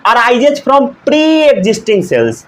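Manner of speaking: very slow, measured words; slow recap dictation. Shown as a demonstration. Teacher recapping Virchow's idea for students, slowly. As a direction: lay out each word deliberately. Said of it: "इनका कहना था".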